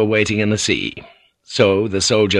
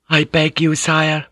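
high-pitched humble plea; meek, high feminine supplication; pleading; 7 semitones higher than usual. A narrator's reading. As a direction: beg your lord in a high voice. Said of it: "she pleaded".

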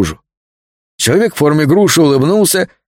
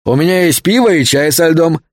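calling out; 4 semitones higher than usual. Acted. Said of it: "крикнул Джек из кухни".

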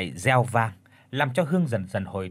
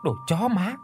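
furious insult; 7 semitones higher than usual. Acted. Hương attacks the man.

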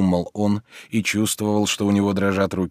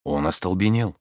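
ordinary delivery

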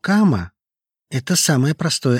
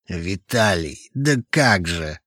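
anguished moan; 4 semitones lower, slower than usual. A narrator's reading. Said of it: "Он застонал".

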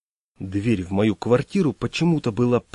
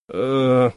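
mooing drawl; 3 dB louder than usual. Acted. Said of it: "замычал он".

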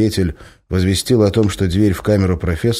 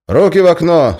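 loud, high barked order; commanding; 11 semitones higher, 7 dB louder than usual. Acted. Guard commands the prisoner, shouting. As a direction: bark it through the hatch. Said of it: "скомандовал он".

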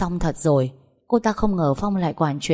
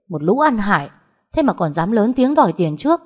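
higher-pitched, mildly heated rebuke; angry scolding; 4 semitones higher, 4 dB louder than usual. Acted. Boss berating useless hirelings who demanded payment, angry scolding. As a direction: scold with rising irritation.

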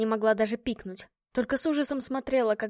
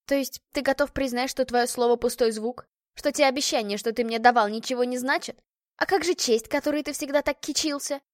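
sarcastic tone; 2 semitones higher, 3 dB louder than usual. Acted. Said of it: "выдала она язвительным тоном".

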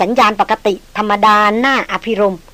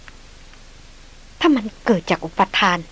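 softer, fading to a faint whisper of the name; a puzzled woman muttering, softer and fading; bewildered murmur; 5 dB quieter, slower than usual. Acted. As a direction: muse aloud, half to herself. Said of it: "ดารินพึมพำกับตนเองอย่างสุดฉงน".

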